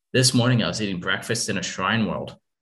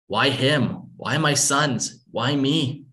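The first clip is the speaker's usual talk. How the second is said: anguished; 5 semitones higher, slower than usual. Acted. Grieving mother cries out.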